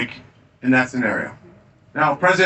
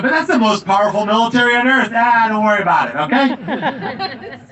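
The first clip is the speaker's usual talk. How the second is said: put-on a light Boston accent, higher and laughing, the doubter then the shrug; Boston rebels bantering in their accent; Boston accent, amused and raised; 7 semitones higher than usual. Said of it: "you can imagine the other guys going".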